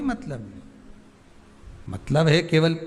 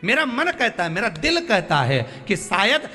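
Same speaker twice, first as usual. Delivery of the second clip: high, forceful preacher's appeal; impassioned preaching; 5 semitones higher than usual. Real, not acted. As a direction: press the plea home with rising fervour.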